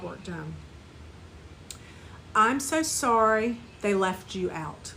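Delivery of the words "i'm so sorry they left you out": slow tender compassion. Shown as a demonstration. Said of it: "Repeat after me".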